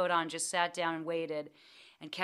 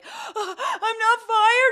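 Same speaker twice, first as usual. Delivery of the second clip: much higher, slow and wobbly disbelief; stunned relief; 13 semitones higher, 9 dB louder, much slower than usual. Retold or imitated. New actress realizing she keeps her job, squeaky disbelief. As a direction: squeak it out in shock. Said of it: "And I was like".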